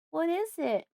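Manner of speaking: high, urgent plea; tearful pleading. A narrator's reading. Daughter pleading with silent Fred, tearfully. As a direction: beg for an answer, close to tears. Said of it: "I'm starting to cry now".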